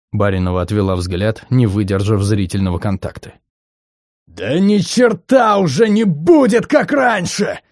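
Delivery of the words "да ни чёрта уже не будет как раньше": slow furious roar, much higher. Acted. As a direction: bellow it out of control. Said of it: "проревел".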